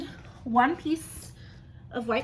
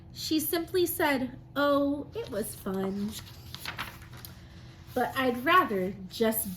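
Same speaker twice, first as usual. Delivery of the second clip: lively, sing-song storybook reading; reading to children; slower than usual. Acted. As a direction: read it like a rhyming picture book to the class. Teacher reads picture book aloud.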